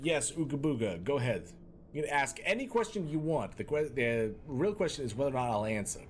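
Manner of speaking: put-on light Boston-New York accent. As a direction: talk like a Bostonian. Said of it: "this Brooklyn, you know, New York, Boston accent".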